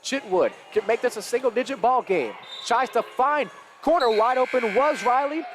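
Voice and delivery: lively basketball commentary; live play-by-play. Real, not acted. Commentator following a drive to a foul, live play-by-play. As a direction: call the action as it unfolds.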